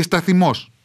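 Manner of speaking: put-on old Achaean «σταθιμός» with a heavy accent; dialect pronunciation. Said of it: "με βαριά προφορά". («σταθιμός» με βαριά ορεινή προφορά)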